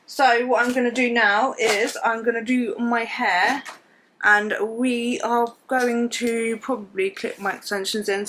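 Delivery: talking around a teeth whitening strip. Real, not acted. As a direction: speak with a whitening strip in the mouth. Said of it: "I've got t-, teeth strip in".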